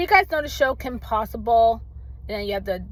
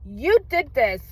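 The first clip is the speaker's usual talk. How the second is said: retold angry scolding; 5 semitones higher than usual. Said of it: "But I got so angry".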